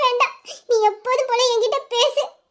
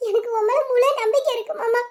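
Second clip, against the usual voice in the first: tearful. Acted. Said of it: "இப்ப வச்சு நீ அழுவாம இருக்கலாம்ல".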